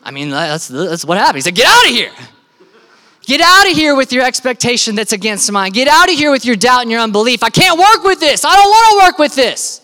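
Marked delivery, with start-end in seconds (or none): 1.5-2.1 sharp, loud order to leave; raised, forceful dismissal; commanding shout. Acted. Jesus throws mourners out. 3.2-9.8 forceful rebuke building to a high shout; fed up, climbing to a yell; exasperated dismissal. Acted. Jesus ejecting doubters, acted.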